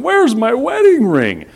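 high, frantic mock panic; half-playful alarmed cry; retold panic. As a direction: act out the frantic search for the lost ring. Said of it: "I'm going".

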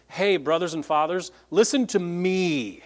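"listen to me" slowed, rising on "Hey"; calling for attention, pressing on "listen to me"; emphatic appeal. Retold or imitated. Paul urging the hostile crowd to listen, emphatic. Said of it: "the best way to say that in English is".

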